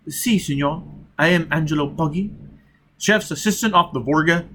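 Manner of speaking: a hint of an Italian cook, quick; lightly voiced Poggi. Disguised agent answering Foyle as the cook, light Italian lilt. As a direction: slick and eager to please.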